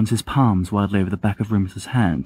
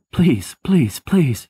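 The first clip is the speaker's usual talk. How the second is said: gasped plea; 7 semitones higher, much slower than usual. Acted. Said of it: "he gasps".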